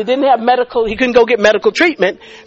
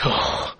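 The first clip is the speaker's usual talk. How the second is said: hushed gasp; 10 dB quieter than usual. Retold or imitated. Retelling her stunned gasp.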